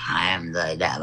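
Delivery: seductive low voice. Acted. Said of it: "In your most seductive voice".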